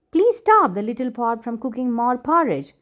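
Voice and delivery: desperate mother calling out; cried out. Acted. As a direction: beg the girl to stop the pot. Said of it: "cried her mother".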